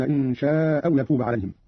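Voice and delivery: شاء أو with one hamza, long-a stretched; dropped hamza, madd. Shown as a demonstration. Teacher shows Qalun's second way, شاء أو merged with madd. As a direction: stretch شاء and drop its final hamza before أو. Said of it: "بإسقاط الهمزة الأولى مع القصر والمد هكذا".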